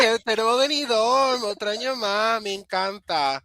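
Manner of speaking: lively Spanish accent. Real, not acted. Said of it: "my Spanish accent".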